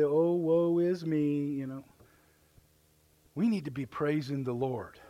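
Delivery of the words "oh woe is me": slow, hammed-up self-pity; mock woe. The devil's fiddles playing, a slow mock wail. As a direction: drag it out like a mock lament. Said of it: "and you can say".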